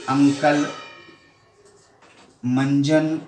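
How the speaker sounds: अंकल and मंजन with the nasal sound stretched through the nose; teacher demonstrating nasal anusvara; nasal anusvara demo. Shown as a demonstration. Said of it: "उच्चारण करके देखो आप, नाक से".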